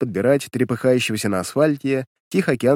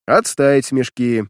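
stern command; 4 dB louder, slower than usual. Acted. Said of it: "скомандовал майор".

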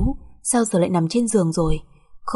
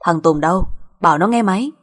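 louder, brusque phone demand; stern demand; 5 dB louder than usual. Acted. Mother-in-law demanding her son on the phone, stern. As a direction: order them to hand over the phone.

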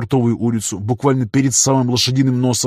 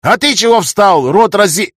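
very high, loud shout cut off; angry yell; 9 semitones higher, 8 dB louder than usual. A narrator's reading. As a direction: yell at him, then break off. Councillor yelling at pedestrian.

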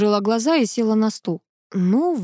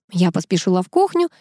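ordinary delivery

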